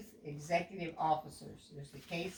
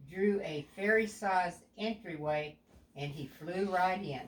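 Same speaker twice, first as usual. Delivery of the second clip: put-on a clear, even storybook read to a young child; storytelling narration. A narrator's reading. Parent reading a picture book aloud to a child, storybook voice.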